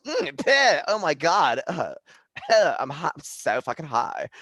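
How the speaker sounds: high, loud stoner stereotype voice; gay guy impression. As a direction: camp stoner gushing about the weed. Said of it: "but you just did the voice".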